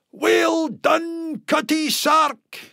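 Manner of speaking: high, excited cheer; roaring out. Acted. Tam cheers the witch on, a high roaring shout. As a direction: bellow it in delight at the dancing witch. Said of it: "and roars out".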